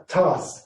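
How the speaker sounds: "tas" with a short a; short vowel. Shown as a demonstration. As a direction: keep the a in "tas" brief. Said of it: "this is short again".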